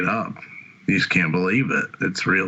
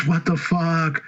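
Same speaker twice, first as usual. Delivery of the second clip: higher-pitched mock indignant protest; raised-pitch replay of being stunned; retold disbelief; 8 semitones higher, slower than usual. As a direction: act out baffled protest at an arrest. His acted reaction to being arrested.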